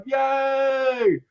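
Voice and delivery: high happy yay; cheering characters at the roadside, high and bright; mock cheer. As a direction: squeal it like the thrilled characters. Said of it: "they're like".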